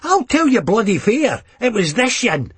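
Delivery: pointing the finger in a fury; mild venomous Leith mother; venomous accusation. Acted. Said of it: "pointed venomously at me".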